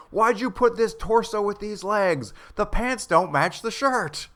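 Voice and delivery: high, slow, fussy coroner voice; a prissy fashion critic judging bodies. Retold or imitated.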